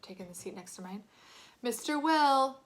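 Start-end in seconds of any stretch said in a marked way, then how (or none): 1.6-2.6 loud, high call of a name; shouted. A narrator's reading. Teacher catching a boy in the wrong row, shouting his name. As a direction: call him out sharply. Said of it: "Mister Rubin shouted".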